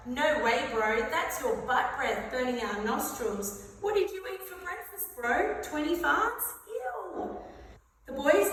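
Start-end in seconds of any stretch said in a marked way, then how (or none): 0.1-7.4 put-on teen bro voice. Teen boys mocking.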